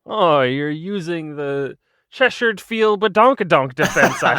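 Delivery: slow, laughing mock chess pro; snooty chess player. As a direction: drawl it like a smug grandmaster. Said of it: "It's like playing chess against somebody".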